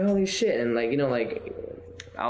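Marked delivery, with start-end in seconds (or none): 0.0-0.6 stunned awe. Retold or imitated. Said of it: "I was like".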